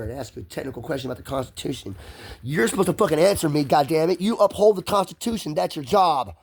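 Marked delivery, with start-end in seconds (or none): 2.4-6.3 raised, higher-pitched angry insistence; indignant demand. Retold or imitated. Demanding that an officer answer him, indignant and high.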